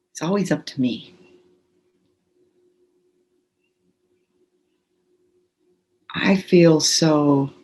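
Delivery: calm, measured tapping script. Acted. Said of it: "just say out loud".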